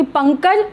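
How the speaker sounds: पंकज with ng from the throat; contrast demo. Shown as a demonstration. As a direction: model पंकज, nasal at the back. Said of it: "उच्चारण स्थान में फ़र्क आ रहा".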